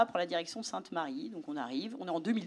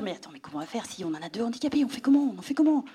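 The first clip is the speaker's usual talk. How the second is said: panicked; faster than usual. Retold or imitated. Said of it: "je me vois lui dire".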